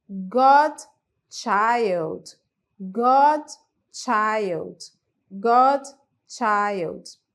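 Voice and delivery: loud model word. Shown as a demonstration. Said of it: "Nós temos a palavra".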